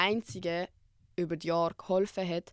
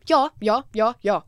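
eager friends agreeing; 2 semitones higher, 10 dB louder than usual. Retold or imitated. Friends assuring her they'd be upset too, eager.

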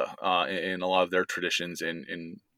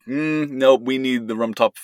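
louder, playfully firm refusal; retold insistence; 4 semitones higher, 6 dB louder than usual. Son-in-law demanding his Rumtopf after missed years, playfully insistent. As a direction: put your foot down, mock-adamant and raised.

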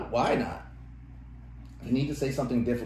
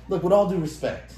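mock condescending; 7 semitones higher, 5 dB louder than usual. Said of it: "whether it was a teacher".

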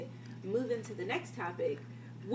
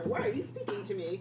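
mock customer service voice; 13 semitones higher than usual. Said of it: "I just be like".

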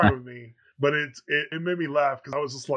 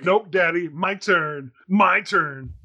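put-on insistent toddler demand; 3 semitones higher, 6 dB louder, much slower than usual. Son demanding controller back.

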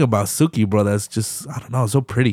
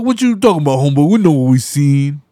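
mock homeboy; 3 semitones higher, 4 dB louder than usual. Imitating character in argument.

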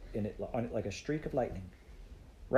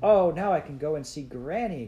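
put-on higher, louder girl's exclamation; delighted outburst, pitched up; excited cry; 6 semitones higher, 6 dB louder than usual. A narrator's reading. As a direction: cry out the happy realization. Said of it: "cried Heidi".

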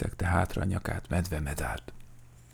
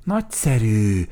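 louder, higher happy exclamation; gleeful character voice; delighted; 5 semitones higher, 6 dB louder than usual. A narrator's reading. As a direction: welcome it with open delight. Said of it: "örült Vacska Mati".

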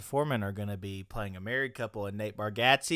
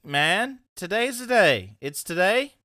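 excited thanks; 10 semitones higher, 8 dB louder than usual. Real, not acted. Anniversary thanks, celebrating.

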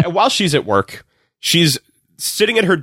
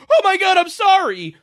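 mock sudden apology. Sudden flip to apology in recap.

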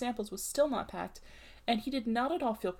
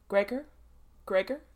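firm call through the door; 5 dB louder than usual. A narrator's reading. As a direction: knock and call his son's name. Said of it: "he called".

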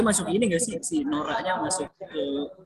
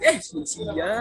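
sudden high-pitched yelp; startled yelp; 11 semitones higher, 4 dB louder than usual. Real, not acted. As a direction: jump up in alarm. (teriakan kaget bernada tinggi)

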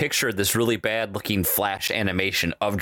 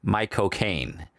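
slow, lower mock Cockney drawl of My cocaine; Michael Caine impression; 4 semitones lower, 3 dB quieter, much slower than usual. Shown as a demonstration. Host showing co-host the trick, mock Michael Caine drawl. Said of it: "All you have to say is".

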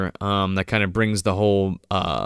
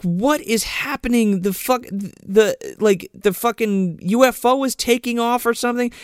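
mock bafflement; 11 semitones higher than usual. Host recalls the UFO-like glow, high and baffled. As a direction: play the lost viewer. Retelling own confusion.

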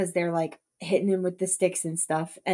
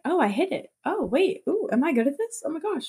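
higher, giddy mock excitement; excited disbelief; 7 semitones higher than usual. Ralph thrilled he hit the boar, giddy and higher. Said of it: "he kinda has a little moment".

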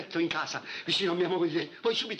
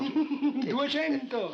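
surprised; 9 semitones higher, much slower than usual. Acted. Startled laugh at sudden higher offer.

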